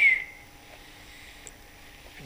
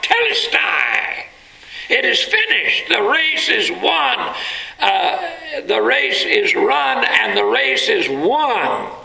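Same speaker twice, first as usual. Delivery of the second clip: victorious shout; 9 semitones higher than usual. Retold or imitated. Runners crossing the finish line, shouting in victory. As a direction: cry out in triumph, full voice. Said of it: "raise their hands in victory and cry out".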